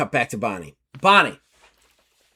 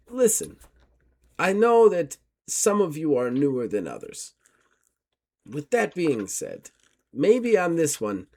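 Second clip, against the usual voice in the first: a prim, courteous investigator, raised pitch; formal gentleman. Acted. GM as Gustav taking his leave of Miss Carlton, formal and polite.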